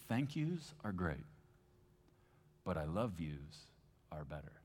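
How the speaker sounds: slow, gentle fatherly words. Retold or imitated. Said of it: "I'll never forget what he said".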